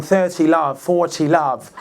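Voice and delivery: lightly imitated British umpire; British referee announcing the score; British accent. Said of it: "he's got a British accent".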